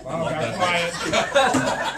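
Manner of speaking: slow laughing delight. Real, not acted. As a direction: laugh through the words. Laughing at heckle.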